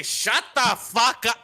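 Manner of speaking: high hammed-up tough-guy bark; mock tough guy. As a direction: bark it like a cartoon brute. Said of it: "kick in the door and say".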